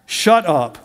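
slow, lightly voiced God speaking; a hint of a stern heavenly voice; God's voice. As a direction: draw it out slowly as the voice of God. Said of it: "feel God saying to me".

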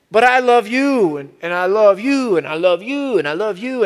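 repeating it person by person, easing off each time; imitating John Perkins, fading down. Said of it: "He goes".

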